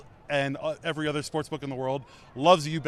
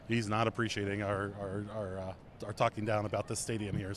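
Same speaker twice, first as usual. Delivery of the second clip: hushed into the mic; soft and secretive, close up; whispering; 6 semitones lower, 7 dB quieter than usual. Real, not acted. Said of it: "I'm gonna whisper this into the mic".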